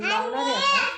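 high and loud determined burst; fed-up declaration. Real, not acted. Mother vowing to phone her in-laws, loud and high. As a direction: announce it in indignation. Angry resolve to call.

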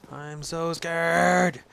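slow, drawn-out anxious wail; real nervous dread. Real, not acted. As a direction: stretch the last word out in dread.

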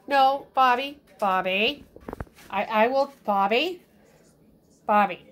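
sharp call to stop him; firm calling. Real, not acted. Owner calling Bobby to stop, firm and loud.

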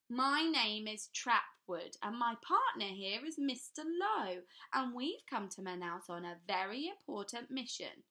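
a sinister man announcing his mission; pompous official. A narrator's reading. Trapwood introduces himself to the class, pompous and loud.

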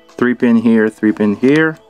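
normal talking voice

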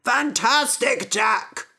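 high, slow delighted cry; excited parents. Acted. Parents greet Jack, high and delighted. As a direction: cheer him on, high. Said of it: "cried his parents".

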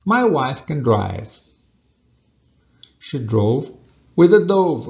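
"My wife can drive. She drove with a dove." slow, with "dove" punched loud; slow model sentence. Shown as a demonstration. Teacher reading a rhyme sentence to students. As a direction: read it slowly, landing hard on dove. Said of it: "é a seguinte frase".

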